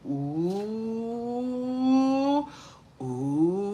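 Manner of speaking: long drawn-out "ooh", imitating a reaction; retold ooh. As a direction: replay a reaction as a stretched ooh. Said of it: "I was like".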